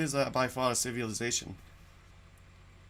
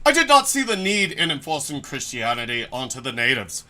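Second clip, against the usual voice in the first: indignant proclamation; 8 dB louder than usual. Acted. Righteous colonial explorer roleplay.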